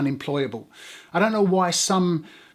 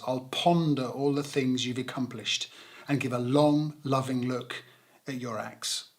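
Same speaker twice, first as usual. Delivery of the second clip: soft reading; 5 semitones lower, 6 dB quieter than usual. Acted. Reading the psalm softly.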